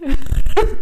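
loud burst of laughter; real laugh breaking out. Real, not acted. Laughs at own story.

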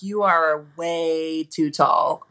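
slow, drawn-out mock verdict; retold blunt verdict. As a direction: stretch out WAY as you quote them.

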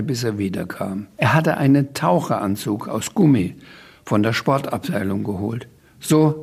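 put-on lively reading-aloud voice for a children's book; story narration. A narrator's reading. Author reading his children's book aloud, lively narration. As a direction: read the chaos scene with relish.

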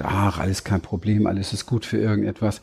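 lightly voiced calm guru who shrugs everything off; spiritual inner voice. The relaxed spiritual inner voice answering the doubts, mildly soothing. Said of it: "Das ist dann so die Spiri-Stimme".

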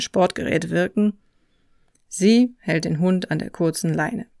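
calm, even read travel narration; documentary voice-over. A narrator's reading. Hiker telling viewers about his walk, calm voice-over. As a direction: read it like a reflective travel film.

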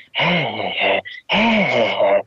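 imitated witch cackle, lightly done; hä hä hä like the witch on the tape; mock witch cackle. Recalling the scary witch laugh from the episode, mock cackle. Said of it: "so eine Hexe gelacht hat".

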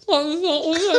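high squeaky laughing words. Real, not acted. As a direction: lose it completely. Laughing fit.

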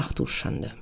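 hushed, breathy whisper to herself; a mock-aghast whispered gasp; whispered dismay. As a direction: whisper it in horror at yourself. Inner dismay after yelling.

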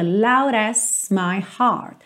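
"loud as" joined smoothly into one sound; linked loud as. Shown as a demonstration. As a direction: run "loud" straight into "as". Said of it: "ele junta o loud no S".

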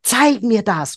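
interested delight. Retold or imitated. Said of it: "reißen die Augenbrauen nach oben, Mundwinkel nach oben".

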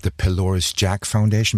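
"The Pylorus Jack Foundation" slow, in clear English; careful English name. Shown as a demonstration. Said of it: "Wie heißt die?".

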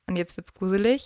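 spooky hushed whisper. Acted. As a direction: breathe it like a ghost story. Spooky true-crime build-up.

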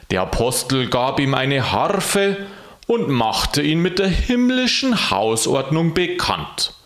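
measured, deliberate storytelling voice; story narration. A narrator's reading. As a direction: read it out like a classic tale. Reads a short story aloud.

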